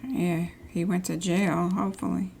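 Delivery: whispered sarcastic aside; snide whisper. Real, not acted. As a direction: whisper it behind your hand, a little snide. Snide aside about the owner.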